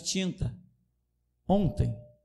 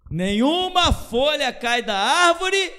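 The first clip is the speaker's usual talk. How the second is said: proclaimed line; 11 semitones higher, 6 dB louder than usual. Acted. Preaching proclamation.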